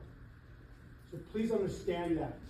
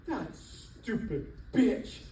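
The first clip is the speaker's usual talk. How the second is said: imitating mom; 3 semitones higher, much slower than usual. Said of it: "she would call me and go".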